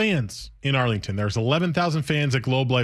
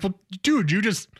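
incredulous, rising higher toward the end; mock exasperation; 4 semitones higher than usual. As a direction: scold him like a baffled buddy. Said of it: "It's like".

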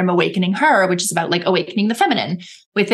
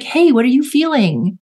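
gentle self-talk; 4 semitones higher than usual. Shown as a demonstration. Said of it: "I literally speak to myself this way".

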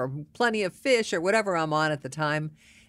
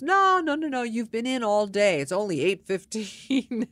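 high, insistent mock objection; 5 semitones higher than usual. Man stopping her from heading out, insistent protest. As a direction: imitate someone urgently stopping a person from leaving. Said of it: "the guy stops me. He goes".

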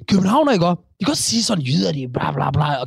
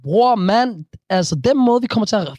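mock Copenhagen slang; 4 semitones higher than usual. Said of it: "den måde, du snakker til mig på".

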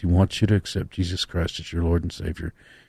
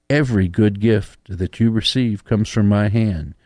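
reading a love letter; 3 semitones higher, 5 dB louder than usual. Acted. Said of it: "I'm reading a love letter from God".

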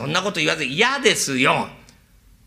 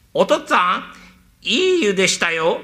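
the son's voice put on, a touch louder and higher; mimicking the son; 3 semitones higher, 3 dB louder than usual. Servant imitating the son to fool the father. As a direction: pass for the son calling home. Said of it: "私はうまいんだから".

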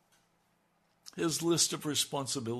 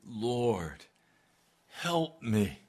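fuller, pressing plea for help; pleading cry; 4 semitones lower, much slower than usual. Acted. Woman kneeling before Jesus, pleading aloud. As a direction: beg him outright. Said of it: "I want you to hear. That's a cry".

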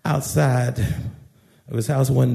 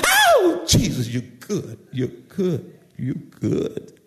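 ecstatic church shout; slower than usual. Acted. Shouting John answering the preacher in church, acted ecstatic outburst. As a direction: burst out, then sink into murmured praise.

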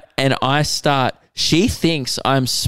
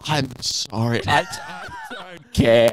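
laughing fake apology; 2 semitones higher, 4 dB quieter, slower than usual. Through the glass door to the mum, laughing fake apology. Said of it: "just be like".

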